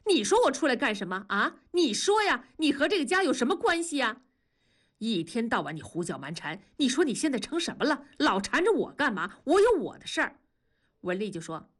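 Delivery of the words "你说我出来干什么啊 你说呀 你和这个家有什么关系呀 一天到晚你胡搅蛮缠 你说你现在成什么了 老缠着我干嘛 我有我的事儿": 2 连声快速质问，调子高起; 3 怒气冲冲一句接一句逼问丈夫; 1 气得质问. Acted. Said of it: "文丽气得上前推同志说". (4 妻子气得推着丈夫，快速高声质问)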